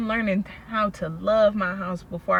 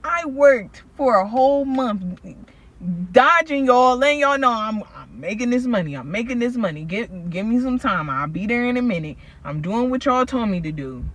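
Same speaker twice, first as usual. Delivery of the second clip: exasperated retort; 4 semitones higher, 5 dB louder than usual. Retold or imitated. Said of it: "I'm like".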